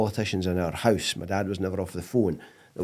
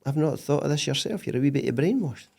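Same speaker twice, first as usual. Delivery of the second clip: imitating his wife; 6 semitones higher than usual. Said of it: "She says".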